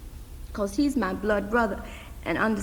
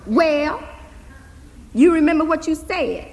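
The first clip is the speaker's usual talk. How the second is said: louder, higher demand; insistent girl; 6 semitones higher, 4 dB louder than usual. Acted. Hazel demanding her uncle admit what he said, insistent. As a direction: push him for the answer.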